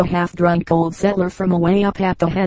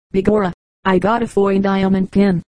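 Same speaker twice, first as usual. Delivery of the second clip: Irish brogue. Acted.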